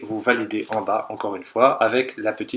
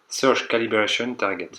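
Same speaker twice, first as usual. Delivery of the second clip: English words in a rough French accent. Real, not acted. Tutor reading the English menu name, rough English accent. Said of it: "Merci pour l'accent anglais".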